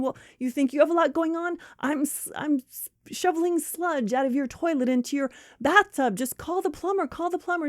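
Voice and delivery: high, stammering indignation; exasperated friend. Acted. Friend shoveling sludge snaps at the caller, exasperated. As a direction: snap back in mock outrage.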